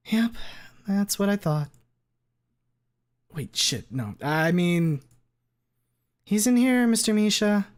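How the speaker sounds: high, caught-out jock; flustered bro voice. Acted. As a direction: stammer a cover-up. Leon voice, flustered.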